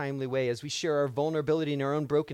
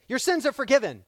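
proclaiming Jesus; 8 semitones higher, 6 dB louder, faster than usual. Retold or imitated. Jesus quoted, raised voice.

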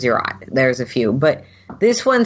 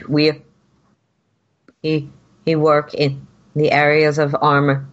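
protocol droid voice; 2 semitones higher than usual. Acted. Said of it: "the protocol droid will".

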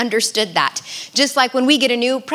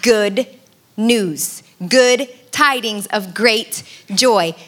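lightly voiced town crier. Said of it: "it would go something like this".

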